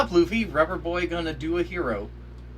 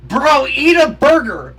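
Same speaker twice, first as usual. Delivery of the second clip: higher, louder, slowed taunt; mocking yell; 9 semitones higher, 12 dB louder than usual. Real, not acted. Viewer heckling a skinny character, mocking yell. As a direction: holler it across the room.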